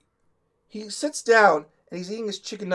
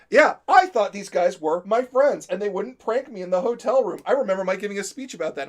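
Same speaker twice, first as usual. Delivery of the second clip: loud, higher-pitched mock grievance; imitated wounded victim; 4 semitones higher, 6 dB louder than usual. The speaker telling others about the prank, mock wounded victim. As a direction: complain as the perfect wounded victim. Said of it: "being the perfect wounded victim".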